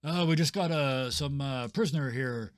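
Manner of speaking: a bad liar bluffing at the gate; bumbling fake guard. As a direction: stumble through the lie loudly. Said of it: "Rand says".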